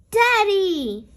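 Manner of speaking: high, loud shocked cry; a child's shocked outburst; gasping Daddy. Acted. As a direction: gasp out his name in shock. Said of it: "gasps Peppa".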